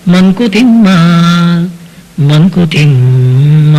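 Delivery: slow, drawn-out chanting of the poem; slow chanted poem recitation; verse recitation. Acted. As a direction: intone the verse like a devotional recital.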